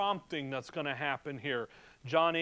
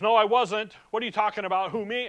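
loud, higher protest; defensive denial; 4 semitones higher, 5 dB louder, faster than usual. Retold or imitated. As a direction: blurt out the denial a bit raised. Peter denying to the maid.

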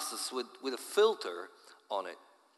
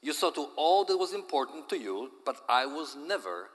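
high, loud cry of despair; despairing yell; 4 semitones higher, 4 dB louder than usual. Acted. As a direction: yell at him, heartbroken. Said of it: "she yelled in despair".

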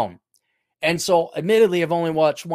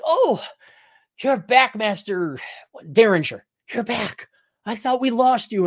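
higher, happy welcome-home voice; lightly voiced delighted servant; 5 semitones higher than usual. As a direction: greet the returning master with joy. Servant greets returning master.

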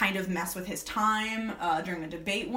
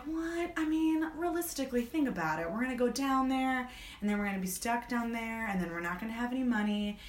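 lightly voiced, higher-pitched list of objections; mock reasoning husband; 3 semitones higher, 3 dB quieter than usual. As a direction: imitate a husband arguing her out of it. Acting out Jack reasoning with Wendy.

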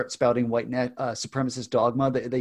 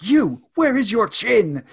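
put-on slow, high, louder British-accented comic-book quote; 10 semitones higher, 7 dB louder, slower than usual. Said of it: "I gave Jesse Custer a British accent".

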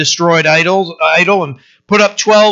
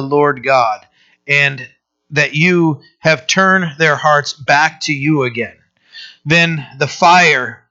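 scripture reading. Acted. Pastor reading First Kings to the congregation, solemn.

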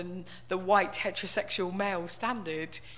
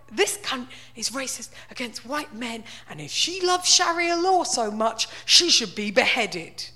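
mock rant building; 5 dB louder than usual. Rereading the troll comment, rising to a loud mock rant. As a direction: build from mutter to outrage.

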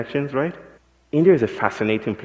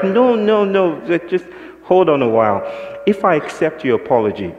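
insistent; 7 semitones higher, 4 dB louder than usual. Retold or imitated. Speaker cutting off the apology.

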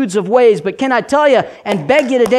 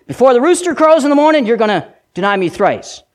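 quick loose paraphrase; 2 semitones higher, faster than usual. Shown as a demonstration. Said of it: "doesn't flow like the thought would".

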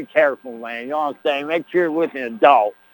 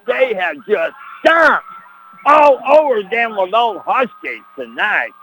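gloating shout; 3 semitones higher than usual. Acted. Gloating over the blowout.

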